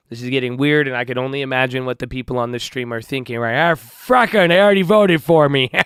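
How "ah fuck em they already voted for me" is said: sinister, evil chuckle through the words. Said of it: "why does it sound so evil when you laugh like that".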